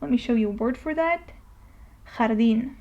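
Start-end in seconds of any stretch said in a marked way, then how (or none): 2.2-2.7 J in "Jardín." as a raspy throaty H; J as flu H. Shown as a demonstration. Teacher showing a word for J, "Jardín." with rough H. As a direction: start "Jardín." on a rough H sound. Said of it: "you pronounce it as the flu H".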